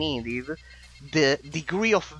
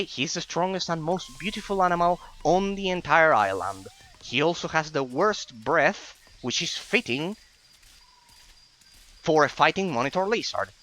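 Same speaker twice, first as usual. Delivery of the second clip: boasting about his lizard, a little higher; a hint of a proud villager showing off; lightly voiced proud lizard owner; 4 semitones higher than usual. Reads NPC dialogue aloud.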